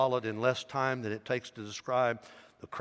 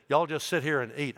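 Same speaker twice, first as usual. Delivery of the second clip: Southern drawl; 3 semitones higher than usual. Retold or imitated. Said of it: "I'm sure he said "y'all".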